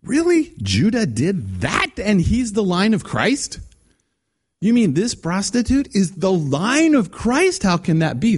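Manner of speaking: high, slow incredulous questioning; mock disbelief. Preacher voicing Muslims' shocked disbelief at the Bible. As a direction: act scandalized by the story. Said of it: "it's like".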